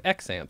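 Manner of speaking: put-on "accent" echoed in the odd way, like "ek-sent"; mimicked mispronunciation. Host teasing co-host by echoing "accent" as "ek-sent". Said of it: "where you just pronounced it".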